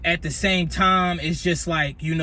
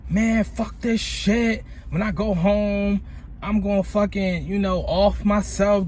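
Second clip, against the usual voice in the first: angry rant; 3 semitones higher, slower than usual. Retold or imitated. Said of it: "And I'm like".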